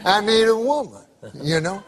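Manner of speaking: grizzled prospector, low and drawling; old prospector. Retold or imitated. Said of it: "I can tell by the accent".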